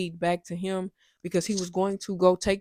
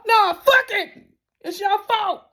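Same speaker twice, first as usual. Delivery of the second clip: mock dismissive retort; 13 semitones higher, 6 dB louder, slower than usual.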